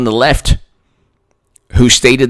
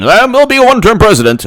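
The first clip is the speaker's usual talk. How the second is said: mock Biden; 8 semitones higher, faster than usual. Mocking Biden.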